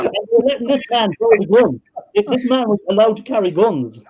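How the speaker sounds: high, half-crying laugh; laughing disbelief. Real, not acted. Laughing disbelief about the soldier.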